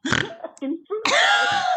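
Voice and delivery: high, slow groan on "fruit fly"; exasperated wail. Real, not acted. Annoyed at a real fruit fly, slow high groan. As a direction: drag "fruit fly" out in despair.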